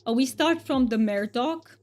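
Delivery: a thick, hammed-up Romanian accent, played for fun; mock Romanian accent. Streamer chats with viewers in a mock thick Romanian accent. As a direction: streamer puts on a joke Romanian accent for chat. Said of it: "But I will be talking in this".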